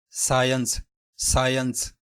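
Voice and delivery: سائنس repeated carefully as "sigh-ence"; practice drill. Shown as a demonstration. Teacher drilling the word: سائنس. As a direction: drill سائنس twice for the class. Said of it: "اس کی practice کریں گے".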